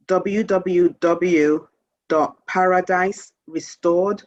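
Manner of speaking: very slow, each letter set apart; slow careful dictation; spelling out a web address. Real, not acted. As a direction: dictate it so listeners can write it down. Dictating her website address.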